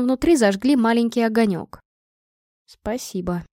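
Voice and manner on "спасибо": soft breathy thank-you; whispering. A narrator's reading. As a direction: whisper it, barely voiced. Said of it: "прошептала я".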